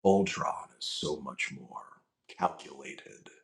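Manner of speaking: low, slow robotic menace; slow, cold and calculating; Ultron voice. Retold or imitated. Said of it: "I'm doing Ultron".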